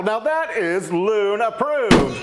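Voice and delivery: excited. Real, not acted. Slow, emphatic announcement of the verdict.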